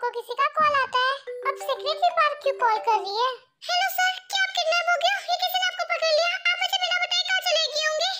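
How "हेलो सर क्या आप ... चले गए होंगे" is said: lightly voiced high-pitched, worried secretary. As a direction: fret at the boss over the phone, pitched up. Worried secretary phones missing boss.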